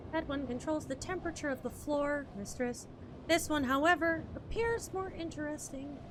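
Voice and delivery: put-on a light British accent for the polite robot; prim robot butler, lightly British; lightly voiced British robot. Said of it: "My British, my British accent is not".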